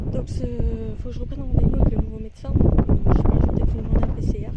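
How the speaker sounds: loud and fast against the wind; shouting over wind. Real, not acted. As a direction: raise your voice over gusts outside. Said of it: "Je sais pas si vous allez m'entendre".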